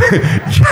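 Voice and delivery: breathy high laugh. Real, not acted. Preacher laughing at his own joke.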